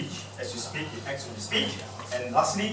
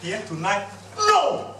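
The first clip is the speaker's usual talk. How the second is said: high, loud sudden no; hammed-up husband rejecting his wife; husband refusing; 5 semitones higher, 4 dB louder, slower than usual. Husband turning down his wife, hammed-up high no. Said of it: "Husband say".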